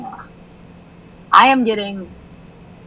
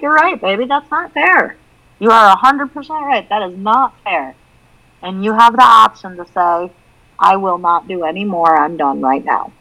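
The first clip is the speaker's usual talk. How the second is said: reassuring mom. Retold or imitated. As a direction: comfort and back her up.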